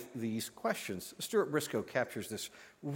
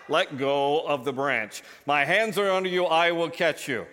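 voice of God; 5 dB louder than usual. Acted. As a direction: insist calmly as God. God repeats his instruction.

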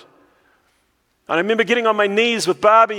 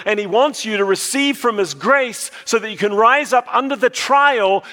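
emphatic preaching; 3 semitones higher than usual. Real, not acted. Preacher assuring congregation God knows their trials, emphatic preaching. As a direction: drive each phrase home, rising in pitch toward the end.

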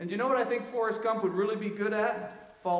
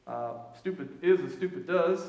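Forrest Gump voice. Retold or imitated. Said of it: "And he goes".

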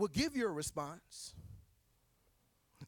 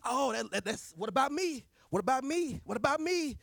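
raised, louder mock whine; whiny complaint; 6 semitones higher, 4 dB louder than usual. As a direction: repeat it like a pouting child. Mocking the tendency.

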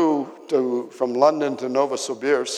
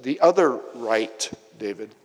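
blunt correction. Retold or imitated. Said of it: "I just said".

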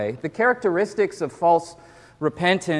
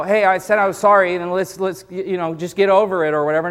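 impatient dismissal; 2 semitones higher, faster than usual. Retold or imitated. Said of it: "you can't, you know".

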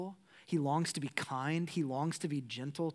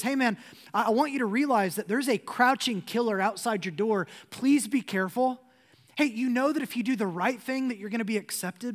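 higher, louder earnest plea as God; pleading warning; 4 semitones higher, 5 dB louder than usual. Pretend. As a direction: urge him, please be careful. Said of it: "God even warns Cain".

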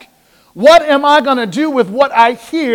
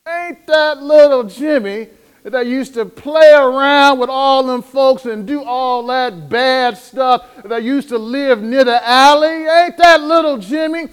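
surprised recognition. Retold or imitated. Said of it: "And then you say".

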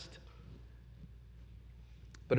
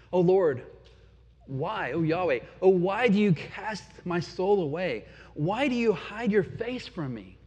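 impassioned questioning of God; anguished lament. Acted. Psalmist asking God why he hides, anguished. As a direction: plead for an answer, pressing each why.

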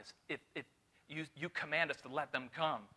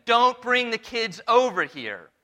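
mock disciples shooing; 6 semitones higher, 12 dB louder, slower than usual. Disciples voiced in retelling.

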